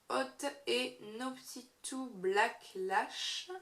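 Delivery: slow, self-mocking attempt at an English accent; awkward put-on English accent for a product name; bad English accent. Shown as a demonstration. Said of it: "Merci pour, euh, l'accent anglais pourri".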